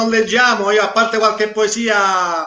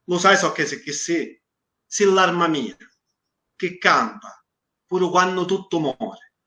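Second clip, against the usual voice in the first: poem recitation. Acted. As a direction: recite it line by line, letting each verse hang. Reads his Sicilian poem aloud. (poesia declamata lentamente, con pause)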